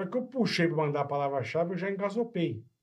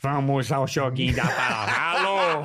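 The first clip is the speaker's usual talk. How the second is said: game show host voice; 2 semitones lower, slower than usual. Retold or imitated. Imitating the show's phone game host.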